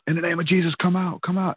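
imitated yelling. People praying over him to cast out a demon, mock yell. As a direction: imitate urgent commanding prayer without full volume. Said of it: "They're yelling at me".

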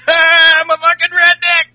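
redneck whoop. Retold or imitated. Host imitating A J taunting Enzo, gleeful yell. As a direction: holler it like a taunt. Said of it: "kinda laughing".

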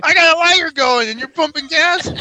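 high-pitched incredulous yell; mock-indignant shouted accusation; retold yelling. Man blaming her while he holds the lighter, retold yelling. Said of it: "I yell at her for pumping gas".

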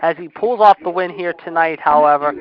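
energetic wrestling commentary; live play-by-play. Real, not acted. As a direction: call the match as it happens.

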